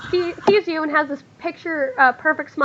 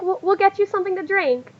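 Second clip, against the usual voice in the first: high-pitched eager hostess; lightly acted girlish eagerness; excited welcome; 6 semitones higher than usual. Girls offering the guest a drink, excited welcome. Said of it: "a bunch of excited squealing".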